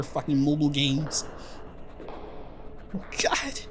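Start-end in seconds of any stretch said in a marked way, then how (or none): 2.9-3.6 high, pleading in terror; terrified horror victim. Acted. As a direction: beg for mercy, terrified. Mocking gods appear, begs for mercy.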